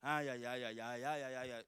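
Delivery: imitating a whiny complainer, ai ai ai; mock the grumbling believer; hammed-up moaning of a complaining Christian; mocking a whiner. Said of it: "Ficar chorando, reclamando".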